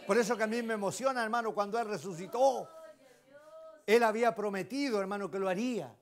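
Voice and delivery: preaching at full force. Acted. Preacher to congregation on the resurrection, preaching at full force. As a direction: build to a passionate climax.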